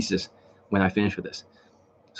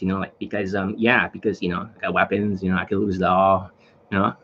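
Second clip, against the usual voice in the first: weird off-putting tonality; 4 semitones lower than usual. Retold or imitated. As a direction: imitate someone posing as dangerous. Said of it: "when they start speaking like that".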